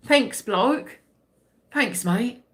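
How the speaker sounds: lightly put-on British accent drifting Australian. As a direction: try British, let it slip towards Australian. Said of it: "giving Australian a little bit too".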